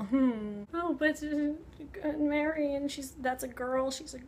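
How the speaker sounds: hesitant, slow shy stammer; a timid young man flustered by a girl; bashful stammer with a whispered aside; nervous Polidori. Retold or imitated. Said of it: "Byron and Polidori are hanging out".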